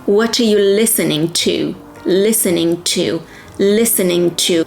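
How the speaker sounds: "What are you listening to" linked smoothly, "are" reduced to "uh"; linked sounds drill. Shown as a demonstration. Teacher drilling a sound automatism, "What are you" run together. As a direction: repeat "listening to" as one joined chunk. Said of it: "Create this sound automatism by repeating".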